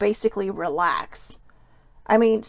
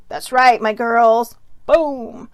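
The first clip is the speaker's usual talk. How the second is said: playful gloating; 5 dB louder, slower than usual. Real, not acted. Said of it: "cheering on fellow Capricorns".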